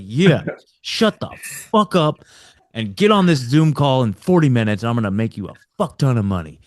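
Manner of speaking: mock hard-sell cussing, swear words punched; play-acted pushy bravado; retold trash talk. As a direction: imitate a brash caller ordering someone around. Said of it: "like, cussing at people, trash talking people".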